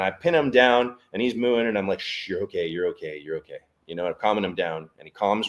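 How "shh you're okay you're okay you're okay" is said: calm the animal down gently; soothing. Retold or imitated. Calming a pinned bull.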